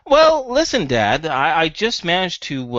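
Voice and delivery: lightly voiced sheepish son; mildly awkward son explaining himself; Ziggy. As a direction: open high on a drawn-in appeal to Dad. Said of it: "scratches the back of his head and he says".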